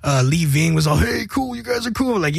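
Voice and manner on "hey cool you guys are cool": higher, half-shouted hearty approval; mock enthusiastic praise. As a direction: hype them up like a buddy backstage. Punk singer praises band backstage.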